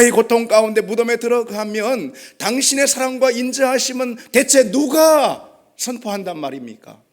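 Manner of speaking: loud, high-pitched protest to God; desperate outcry. Acted. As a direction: cry it out, demanding an answer. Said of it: "그런 절규인 것입니다".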